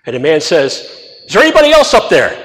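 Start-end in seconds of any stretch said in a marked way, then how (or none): 1.3-2.4 frantic punchline. Retold or imitated. Punchline, man begs for another.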